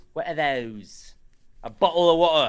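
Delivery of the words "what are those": slow, soft mock British accent. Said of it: "I've been trying to work on my British".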